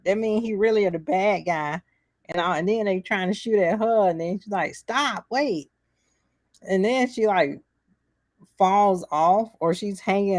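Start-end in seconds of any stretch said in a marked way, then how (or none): 4.7-5.7 mock alarm. Acted child calling out under fire.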